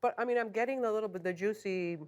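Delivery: chewing while talking; words round a bite of brisket; mouth full. Real, not acted. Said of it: "I'm talking with my mouth full".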